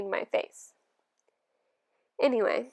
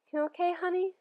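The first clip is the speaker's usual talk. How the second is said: sleepy, drowsy question; just woken, still groggy; 7 semitones higher than usual. Acted. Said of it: "she said groggily".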